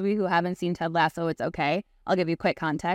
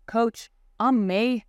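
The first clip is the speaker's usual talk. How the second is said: Jamie Tart; 3 semitones higher than usual. Retold or imitated. Retelling a TV player's answer to his coach, lightly acted. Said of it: "And Jamie goes, in his accent, which I won't pretend to do".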